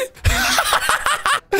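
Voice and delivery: shrill burst of giggles; high squealing laugh. Real, not acted. Streamer cackling high as the prank lands. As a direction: let out a high delighted shriek of laughter.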